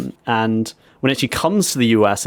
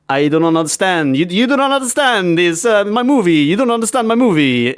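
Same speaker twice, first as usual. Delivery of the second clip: angry director; 7 semitones higher than usual. Retold or imitated. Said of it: "And he's just like".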